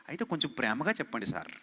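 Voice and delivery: parroting a congregant who begs him to preach lovingly, soft and pleading; mock pleading. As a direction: imitate a meek church member begging sweetly. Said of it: "చాలామంది నాకు చెప్తుంటారు".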